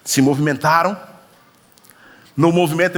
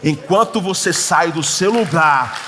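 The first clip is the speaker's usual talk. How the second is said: preaching; 2 semitones lower, much slower than usual. Acted. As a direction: drive the point home, word by word. Preaching the sermon's point.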